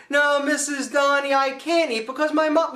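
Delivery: high-pitched mock protest; polite refusal. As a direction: act out a boy protesting to an adult. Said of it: "And I'm like".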